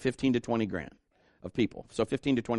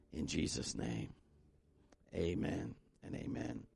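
guided prayer. Acted. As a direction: lead them gently in prayer. Leads sinner's prayer.

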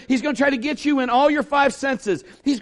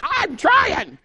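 higher, strained mock complaint; mock strained crook; 7 semitones higher, much slower than usual. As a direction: whine it like a clumsy movie crook. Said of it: "and he's like".

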